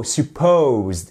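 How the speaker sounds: "supposed" hitting "posed" clearly; stress on second part. Shown as a demonstration. Teacher repeating "supposed" for the class, stress on "posed". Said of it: "accentuation sur la seconde partie du mot".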